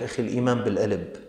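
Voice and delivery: quick, offhand brush-off; mock excuse maker. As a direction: toss it off like a lazy excuse. Mocking a dismissive excuse-maker. (تقليد ساخر لمتهرب من الصلاة)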